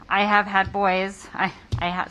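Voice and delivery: nervous, stumbling over words; nervous stammer. Real, not acted. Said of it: "sorry, I'm nervous".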